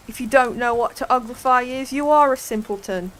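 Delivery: loud scornful put-down. Acted. Griffin telling Alice she is a simpleton, loud and scornful. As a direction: call her a simpleton to her face.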